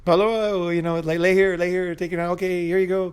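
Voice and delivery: breezy and upbeat, as if it's routine; friendly doctor. Retold or imitated. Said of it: "He was all super friendly".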